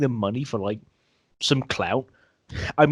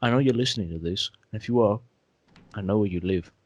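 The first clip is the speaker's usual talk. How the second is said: mock menacing threat; 5 semitones lower than usual. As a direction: play the villain threatening someone.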